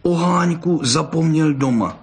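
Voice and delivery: little cub puzzling aloud; wondering. A narrator's reading. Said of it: "divil se oháněček".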